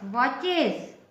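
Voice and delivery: वॉचेस as "waa-chez", the ending sounded as ez; teaching pronunciation. Shown as a demonstration. Teacher showing pupils a word ending, said carefully. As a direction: model वॉचेस clearly and deliberately. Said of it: "इसमें च उच्चारण वाला consonant है".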